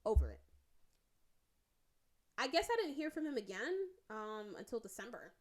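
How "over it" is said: high, snippy fuck-you-too; higher, mock-bright brush-off; sarcastic comeback. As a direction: fling it back with a sarcastic lilt. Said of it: "So I was like".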